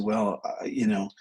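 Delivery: hesitant, trailing stall; hemming and hawing. Retold or imitated. Therapist retelling a client's hesitant reply, hemming and hawing. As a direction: imitate someone stalling for time. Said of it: "he hems and haws".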